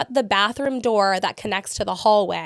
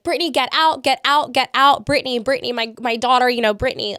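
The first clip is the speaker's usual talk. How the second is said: higher and louder, urgent calls to get out; retold frantic screaming; 4 semitones higher, 5 dB louder than usual. Mother calling her daughter to flee, loud urgent yelling. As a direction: yell the name as if begging her to run. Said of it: "my mom starts screaming for me to get out".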